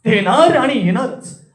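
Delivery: demonstrating speech from the chest. Shown as a demonstration. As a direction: speak it firmly from the chest. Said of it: "दुसरा असतो आपल्या छातीतून".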